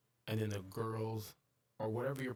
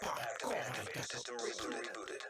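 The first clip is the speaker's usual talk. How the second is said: robot announcer. Acted. Game system voice announcing a reboot, flat and robotic. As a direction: intone it like a computer.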